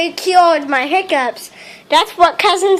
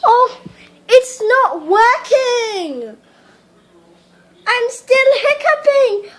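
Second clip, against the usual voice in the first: worried; 5 semitones higher than usual. Acted. Worried hiccuping girl spirals.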